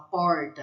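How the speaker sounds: "porta" with the R curled up in the mouth; R high in mouth. Shown as a demonstration. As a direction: Brazilian retroflex R in "porta". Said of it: "é bem aqui em cima".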